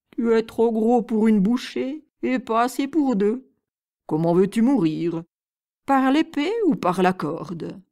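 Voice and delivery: loom over him like a dim brute. Acted. Two-headed giant speaks.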